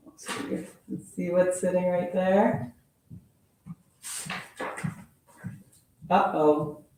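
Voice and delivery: lively storybook read-aloud; animated picture-book reading voice; reading to children. Acted. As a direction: read it like story time for kids.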